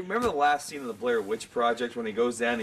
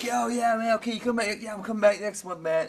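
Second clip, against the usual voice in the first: imitating a friend; 9 semitones higher than usual. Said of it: "he'd be like".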